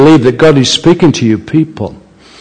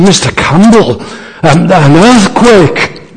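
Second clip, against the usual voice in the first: alarmed minister; 6 semitones higher than usual. Retold or imitated. Minister alarmed at shaking house.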